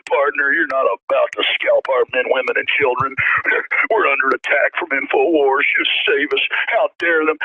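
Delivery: lightly voiced Southern lawman accent, slow and deliberate; a hint of a folksy Southern sheriff accent; mock Southern drawl. Host parodying the officer as a Southern lawman, light accent. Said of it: "putting that accent on".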